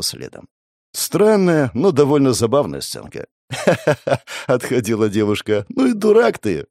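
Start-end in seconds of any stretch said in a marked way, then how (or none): 3.5-4.4 giggling laugh. Real, not acted. Laughter after the skit. 5.7-6.7 laughing tease. Real, not acted. Laughing teasing.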